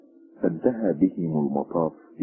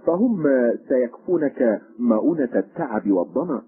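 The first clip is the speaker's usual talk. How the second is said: higher, louder character voice; first stranger; 7 semitones higher, 3 dB louder than usual. A narrator's reading. First stranger answering his companion by the fire, higher character voice. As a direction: voice the first stranger with a high lift.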